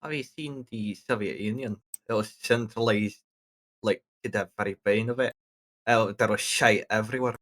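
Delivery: broad Scottish accent, natural speech; strong Scottish brogue throughout; thick Scottish accent. Real, not acted. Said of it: "That's the thickest Scottish accent I've ever heard".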